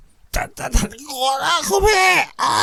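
strangled, stammering high plea; เค้นเสียง. A narrator's reading. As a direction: force words out through a squeezed throat. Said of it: "เค้นเสียงเกือบไม่เป็นภาษาคนผ่านคอหอย". (เสียงตีบตันเหมือนโดนบีบคอ)

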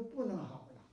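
faint, breathless, fading out; too weak to talk. Retold or imitated. Dying patient answers the healer, barely able to speak. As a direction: say it with no strength left. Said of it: "说话都没有气力".

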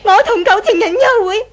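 tearful. Acted. Accused wife, tearful.

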